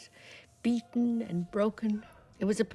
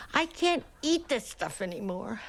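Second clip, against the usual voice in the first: mildly tearful, slightly raised plea; tearful cry; 3 semitones higher than usual. Acted. Nurse retelling her outburst over dinner, mildly tearful. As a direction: act out a touch of tearful exasperation. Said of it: "I burst into tears and cried".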